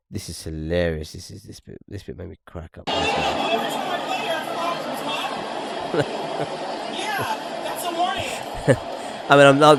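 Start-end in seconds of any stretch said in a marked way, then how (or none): 2.9-9.2 high burst of helpless laughter; wheezing real laugh. Real, not acted. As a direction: crack up at the clip. Clip made him crack up.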